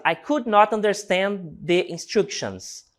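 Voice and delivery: slow, careful example sentence for the class; slow model reading. Shown as a demonstration. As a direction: read slowly and clearly for learners. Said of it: "Nossa quarta frase".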